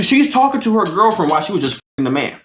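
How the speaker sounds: ordinary talk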